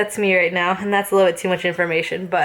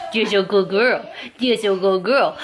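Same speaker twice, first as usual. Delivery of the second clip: puppy voice. Real, not acted. Owner praising her puppy in baby talk. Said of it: "My voice is so annoying".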